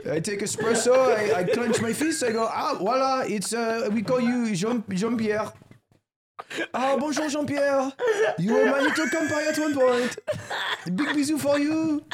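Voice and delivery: high-pitched cartoonish French accent. Greeting Jean-Pierre over espresso, mock French accent. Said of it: "Don't do the French accent".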